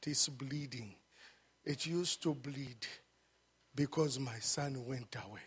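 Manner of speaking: soft, near-whispered heartache; father quietly confessing his bleeding heart; hushed grief. Retold or imitated. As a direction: let the father's hurt drop to a hush. Grieving father speaks of his son.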